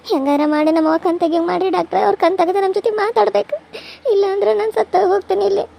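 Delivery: desperate plea through tears; tearful begging. Acted. Daughter implores doctor to save her mother, tearful begging. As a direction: beg the doctor, crying.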